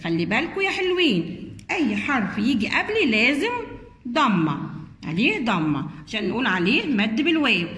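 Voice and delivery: a hint of a letter giving gentle advice; the letter Waw. The letter Waw advising the little letters, a lightly voiced role. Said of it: "حرف الواو قال لهم".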